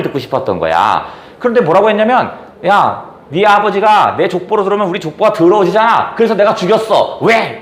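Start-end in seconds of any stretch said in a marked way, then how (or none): 2.7-7.6 a touch of brazen arrogance, raised pitch; lightly voiced shameless landlord's son. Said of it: "아주 뻔뻔하게 얘기합니다". (뻔뻔한 말투를 살짝 흉내 내며)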